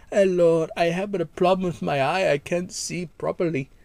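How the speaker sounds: a mild put-on Indian accent in a prank call. Prank caller to the listener, mild Indian accent. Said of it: "like, an Indian man".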